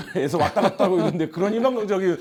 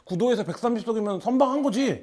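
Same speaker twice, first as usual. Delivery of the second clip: lightly voiced partisan defending the result; a hint of indignant party loyalist; pro-Han faction member; 4 semitones higher than usual. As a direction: argue back with slightly raised pitch. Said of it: "이렇게 이제 하겠죠".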